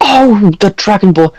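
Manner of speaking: put-on high, fussy old priest voice; jolly priest NPC. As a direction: play a pompous, chatty cleric. High priest flustered and defensive.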